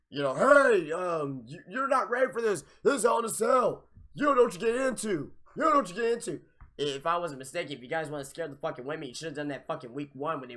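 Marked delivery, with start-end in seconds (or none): 0.3-6.4 imitating Mick Foley. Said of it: "was like".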